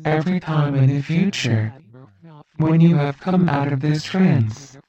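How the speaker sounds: steady, measured hypnotist cadence with long pauses; calm hypnosis script. Acted. Hypnotist giving trance triggers to the listener, measured hypnotic voice. Gives post-trance instructions.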